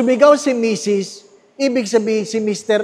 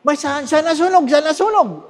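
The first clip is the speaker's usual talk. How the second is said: put-on child's voice; 6 semitones higher than usual. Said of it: "Sabi nung anak".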